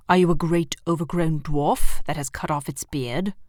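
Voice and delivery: loud, haughty queen's demand; cold queen. Acted. The White Queen looming over Edmund, loud and scornful. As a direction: sneer down at the boy like a queen.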